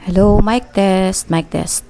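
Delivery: mic test through wireless lav; through a lavalier mic. Shown as a demonstration. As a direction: test the mic, slow hello. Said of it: "ito naman yung with mic".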